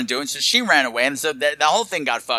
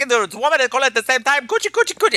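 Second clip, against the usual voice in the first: creepy character voice; 9 semitones higher than usual. Retold or imitated. Mock voicing a creepy character.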